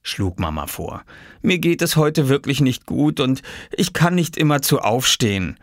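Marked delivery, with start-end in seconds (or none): 1.4-5.6 weary sick-mother voice; unwell mother character. Acted. Mother tells boys she is unwell, weary voice. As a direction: plead gently as a mother feeling poorly.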